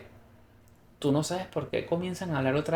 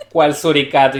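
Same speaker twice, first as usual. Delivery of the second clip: laughing confusion; 9 dB louder than usual. Retold or imitated. Confused reaction quoted, laughing.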